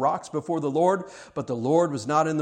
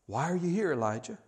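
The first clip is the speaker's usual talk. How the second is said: soft, quiet asking; gentle question; 6 dB quieter than usual. Acted. God asking Elijah quietly. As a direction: ask it softly. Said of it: "God is shaking Elijah up".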